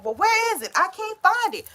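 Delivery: frantic search. Retold or imitated. Stoner searching for the item in hand, mock panic. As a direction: ham up a panicked hunt for something. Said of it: "how you going".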